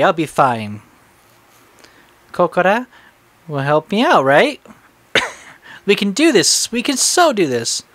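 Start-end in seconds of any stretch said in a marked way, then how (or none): 5.9-7.8 strained, hoarse delivery. Real, not acted. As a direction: push through a worn-out voice. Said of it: "I'm losing my voice".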